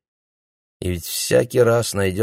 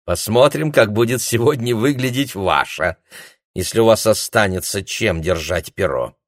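mocking threat; 4 semitones higher than usual.

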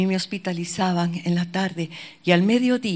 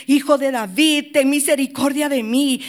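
louder insistent plea; crying out more; 5 semitones higher, 6 dB louder than usual. Retold or imitated. Blind man calling louder over the crowd, insistent cry. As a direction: push the plea harder this time. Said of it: "él clamaba mucho más".

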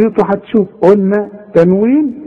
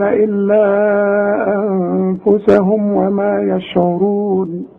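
slow, measured chant on a level pitch; Quran recitation; slower than usual. Shown as a demonstration. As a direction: recite with long held vowels and hums. (ترتيل قرآني متمهل)

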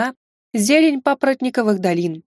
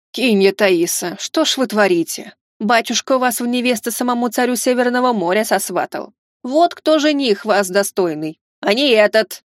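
out of breath. Acted. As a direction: scold while still panting. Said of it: "тяжело дыша".

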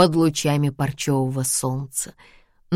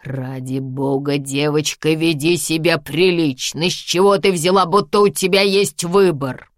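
angry growl, rising to loud; 4 dB louder than usual. Acted. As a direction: snarl it into her ear, building. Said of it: "прорычав на ухо".

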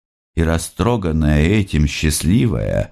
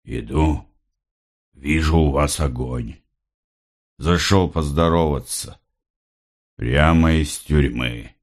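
strange voice; 3 semitones lower than usual. A narrator's reading. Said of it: "объявил он странным голосом". (странным, глухим голосом)

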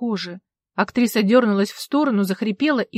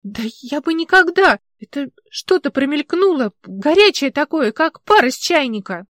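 indignant; 6 semitones higher, 8 dB louder than usual. Acted. Polina denies accusation excitedly.

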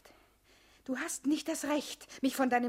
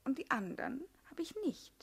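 coy whisper; 7 dB quieter than usual. Acted.

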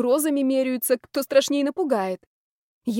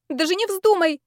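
high, louder don't-you-dare; alarmed warning; 9 semitones higher, 4 dB louder than usual. Acted. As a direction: stop him before he kneels. Heroine forbids kneeling proposal.

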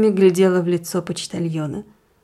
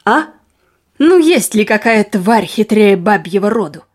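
indignant exclamation. Acted. Husband railing at women's cunning, exclaiming indignantly. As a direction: voice jumping up in acted outrage. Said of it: "воскликнул он".

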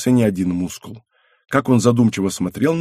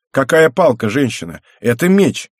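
louder, higher indignant protest; indignant retort; 4 semitones higher, 5 dB louder than usual. Acted. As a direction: fire back, offended at the word stick. Brother snaps back at sister.

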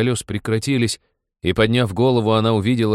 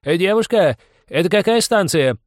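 a thin, much higher call out the train window; weak call; 11 semitones higher, 6 dB louder than usual. A narrator's reading. Fat passenger calls feebly from the train window, thin and high. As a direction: call out feebly to the girl on the platform. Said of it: "слабо закричал".

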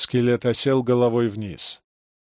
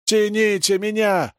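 shouting for help; 7 semitones higher, slower than usual. A narrator's reading. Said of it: "закричал Юра".

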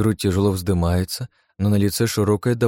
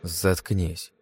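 grumbled under breath; 5 dB quieter than usual. A narrator's reading. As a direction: mutter it under your breath. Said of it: "буркнул я под нос".

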